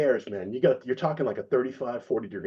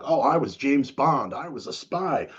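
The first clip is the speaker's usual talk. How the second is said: slow, higher-pitched mock brag; mock boasting; 3 semitones higher than usual. Mocking Li Yun Chao's spy stories, mock boasting. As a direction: draw it out like a self-important talker. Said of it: "Li Yun Chao liked to talk".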